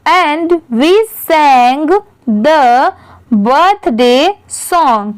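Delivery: very slow, word by word reading; slow read-aloud. Shown as a demonstration. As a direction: read it out slowly for young learners. Teacher reads paragraph aloud slowly. (धीरे-धीरे पढ़कर सुनाना)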